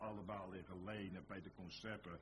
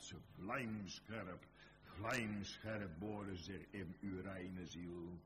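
slow, weighted words; slower than usual. Acted. Preacher dwelling on sharp words.

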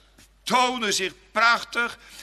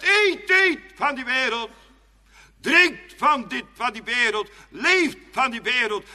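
tempting devil; 3 semitones higher, 4 dB louder than usual. Acted. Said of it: "En hebt hij dan zegt".

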